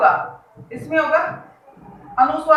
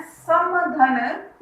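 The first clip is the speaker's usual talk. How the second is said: slow syllable-by-syllable; 3 semitones higher, much slower than usual. Shown as a demonstration. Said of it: "समधन योग".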